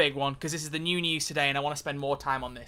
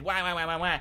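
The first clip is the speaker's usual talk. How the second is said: mock crying wah. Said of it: "for people who were saying".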